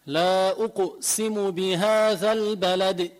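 slow chanted tajweed recitation; slow Quranic chant. Shown as a demonstration. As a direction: recite it slowly with measured chant.

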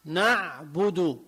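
نعبد slow, with a light ن and thin ع; light correct nun. Shown as a demonstration. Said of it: "تمه مفتوح".

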